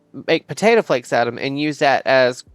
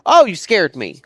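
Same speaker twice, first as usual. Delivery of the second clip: startled; 4 semitones higher, 5 dB louder than usual. Real, not acted. Startled by a game object.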